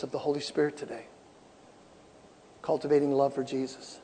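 low, very soft preaching; hushed, tender urging. Real, not acted. Preacher urging the church to seek closeness with Jesus, hushed.

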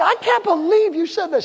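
high-pitched wounded disbelief; upset wife retold. Wife reproaching her husband over the nut roll, mock upset. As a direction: imitate a hurt wife, voice pushed high. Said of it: "She starts crying".

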